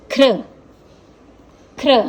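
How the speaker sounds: ख्र said slowly, r blended after kh; slow syllable demo. Shown as a demonstration. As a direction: sound out ख्र carefully. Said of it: "ये र की मात्रा". (ख्र धीरे-धीरे, र मिलाकर)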